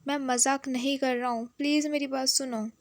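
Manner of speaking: mild mock yell, begging them to listen; retold shout. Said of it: "हैंग चिल्ला के बोलता है". (चिल्लाकर गिड़गिड़ाना, हल्का सा)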